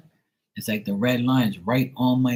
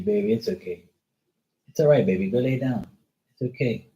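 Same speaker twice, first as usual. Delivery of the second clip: soothing pet. Real, not acted. Soothing dog.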